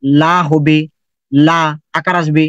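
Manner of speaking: লা said thin and clear with a long a; light la. Shown as a demonstration. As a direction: keep লা light and bright. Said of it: "আর পাতলা হলে বাংলা".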